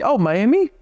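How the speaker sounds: squeaky overeager echo of her city; high-pitched echo. Retold or imitated. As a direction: jump high on Miami in mock surprise. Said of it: "in a higher pitched voice".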